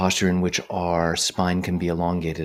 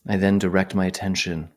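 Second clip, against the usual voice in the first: unhurried phrases set apart by long silences; guided meditation. Real, not acted. Meditation teacher guiding attention to the breath, calm measured voice. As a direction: talk listeners through it calmly, leaving space.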